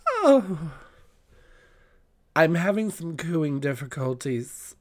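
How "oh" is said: high, slow sultry diva welcome; campy drag queen. Acted. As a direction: purr it like a glamorous drag hostess. Donna Sugar persona intro continues.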